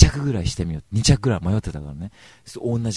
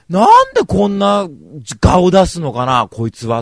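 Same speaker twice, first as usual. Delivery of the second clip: louder, slow seething grumble; louder and drawn-out irritated thought; inner fury; 7 semitones higher, 13 dB louder, slower than usual. Retold or imitated. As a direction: seethe slowly at your brother.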